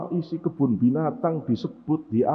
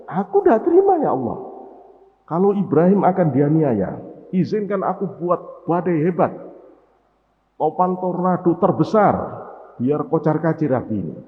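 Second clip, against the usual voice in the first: much higher, loud and fast cry; wind shouting; 4 semitones higher, 4 dB louder than usual. Acted. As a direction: hurl the protest like a storm. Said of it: "Angin teriak".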